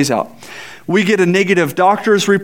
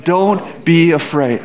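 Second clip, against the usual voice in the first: slow reassurance; slower than usual. Shown as a demonstration. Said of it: "Let's say that one more, one more time".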